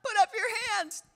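high, loud order to the crowd; imitating an aggressive worship leader; commanding shout. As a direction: bark at the youth to get up. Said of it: "She's like".

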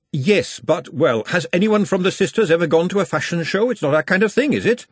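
hedging and backing down; flustered Glenda. Acted.

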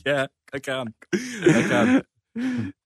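high, clipped cartoon baby; Stewie Griffin voice. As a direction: play the evil cartoon baby. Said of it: "can you do your best Stewie Griffin voice".

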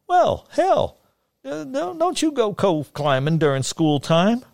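put-on high folksy old hillman; sing-song voice. A narrator's reading. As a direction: scold lightly in a high lilt. Fagin voiced by narrator.

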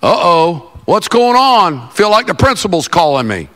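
a touch of comic dread; mock apprehension. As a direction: imitate a pastor friend worried he's in trouble. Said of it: "And he said".

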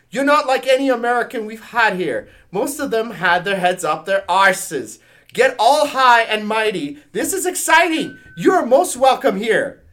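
loud, high put-on Scottish accent; Scottish admirer. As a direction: proclaim a hearty welcome in mock Scottish. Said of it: "My Scottish Superman said".

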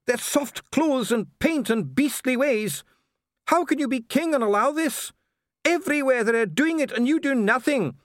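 high, loud, raging voice; furious ranting dwarf. Acted. Dee rants at the king about dwarfs in Ankh-Morpork, high and furious. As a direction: rant with rising disgust. Dee's rant continues.

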